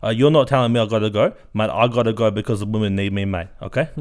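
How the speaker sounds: loud, brash blokey uncle voice with mate on every line; Uncle Guido character. Acted. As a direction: play the boastful uncle, cocky and loud. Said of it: "Uncle Guido, you are a character".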